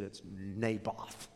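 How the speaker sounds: low, quiet, slow pouting mumble; a sullen king grumbling; sulking king. Acted. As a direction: sulk it out like a pouting child. Sulking Ahab answering his wife.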